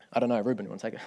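low, amused aside breaking into a laugh; joking handoff. Real, not acted. Preacher jokingly offering Ruben the sermon, amused. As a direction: toss it away lightly with a chuckle.

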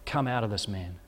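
low, calm and firm command; firm but gracious. Acted. Jesus ordering the evil spirit out of the man, firm and gracious. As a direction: command the spirit with quiet authority, not anger. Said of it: "to him firmly, but graciously".

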